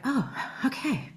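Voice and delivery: relieved. Retold or imitated. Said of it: "you're like".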